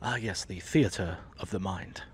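slow, low, mock-grand announcer voice; mock grandiose. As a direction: intone it like a pompous narrator, slowly.

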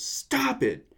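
high-pitched retold outburst; mock outraged yell. Kid snapping at the old man, mock outrage. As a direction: imitate a kid's sudden high protest.

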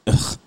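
short dismissive "ugh"; disgusted groan. Retold or imitated. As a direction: groan it out, fed up with foolishness. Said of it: "That's my response to foolishness".

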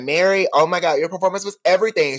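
high, fast starstruck gush; gushing fan. Retold or imitated. Fan gushing to a singer backstage, high and fast.

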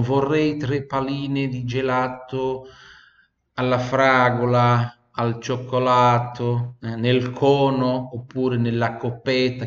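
slow, lightly voiced Italian ordering ice cream; imitating an Italian customer. Teacher imitates Italians ordering ice cream in Germany, slow. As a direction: order slowly like a tourist in a gelateria. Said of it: "quando os italianos iam lá pedir sorvete".

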